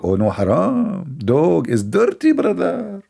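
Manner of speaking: mocking a believer, pitch climbing on brother; mock pious Muslim. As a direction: parody a devout man shocked by dogs. Mimicking a Muslim's answer about dogs.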